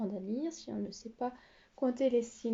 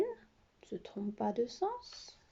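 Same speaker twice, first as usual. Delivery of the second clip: soft unvoiced aside to herself; half-whispered remark while writing; 6 dB quieter, slower than usual. Real, not acted. Teacher whispers to herself at the board, unvoiced. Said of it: "teacher aside while writing".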